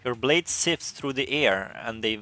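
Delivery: story narration. Acted.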